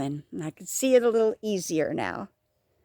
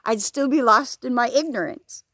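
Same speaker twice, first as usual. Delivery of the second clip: ordinary delivery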